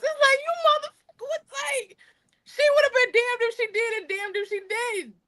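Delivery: high, near-tearful exasperation; exasperated outburst. Retold or imitated. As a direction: cry out in disbelief.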